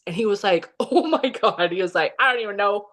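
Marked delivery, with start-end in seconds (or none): 0.7-1.7 imitating son's nervous laugh; higher, retold oh-my-God with nervous giggle. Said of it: "starts laughing because he's so nervous". 2.2-2.9 imitating a rattled son, higher pitched; retold nervous disbelief, voice raised in pitch. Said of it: "because he's so nervous".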